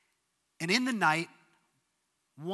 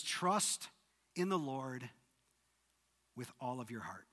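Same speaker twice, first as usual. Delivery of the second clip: hushed scripture reading; soft quoted verse; 5 semitones lower, 7 dB quieter than usual. Shown as a demonstration. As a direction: let the words settle quietly. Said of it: "this is where it begins".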